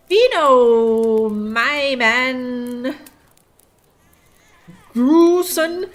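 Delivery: very slow, drawn-out syllables; mock attempt at reading illegible text; labored sounding out. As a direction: stretch every sound of the garbled foreign words. Sounding out awful foreign text.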